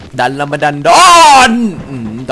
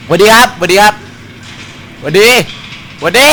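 mock greeting; 7 semitones higher, 4 dB louder than usual. Greeting the ghost mockingly.

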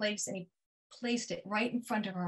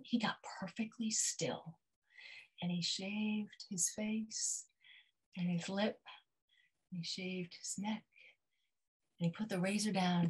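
hushed; 2 semitones lower, 10 dB quieter than usual. A narrator's reading. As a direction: hold your breath as you tell it. Tense hush while dad shaves.

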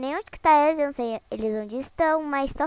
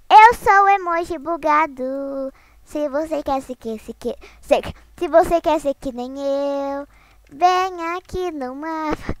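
slow, louder mock-menacing character voice; glitched emoji voice; 4 dB louder, slower than usual. Streamer voicing the glitched emoji to players, slow and menacing. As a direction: play the bugged emoji luring players.

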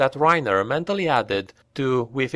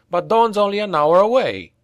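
high, louder indignant objection; protesting; 8 semitones higher, 4 dB louder than usual. Acted. Reiner objecting to Vert, high indignant protest. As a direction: push back in disbelief.

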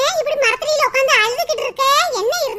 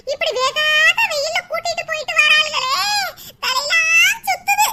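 whining complaint; 3 semitones higher than usual. Acted. Grumbling, dizzy from the hot sun. (வெயிலில் களைத்துப் புலம்பல்)

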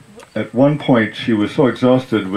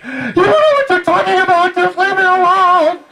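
exasperated daughter; 4 dB louder than usual. Retold or imitated. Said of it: "going, like".

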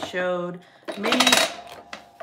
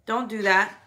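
firm scolding, louder at end; stern scolding; 6 dB louder than usual. Real, not acted. Mother scolding son.

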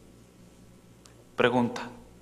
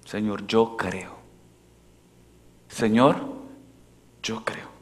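oración confiada; 2 semitones lower, slower than usual. Pretend. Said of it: "Así".

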